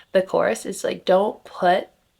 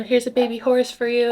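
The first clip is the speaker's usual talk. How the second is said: farm owner voice; 4 semitones higher, 3 dB louder than usual. Retold or imitated. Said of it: "the farm owner being like".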